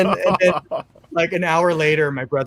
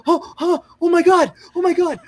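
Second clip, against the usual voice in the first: put-on much higher, giddy gasps of a thrilled child; excited kid; 13 semitones higher than usual. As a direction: gush like a kid who just won. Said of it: "And so I was like".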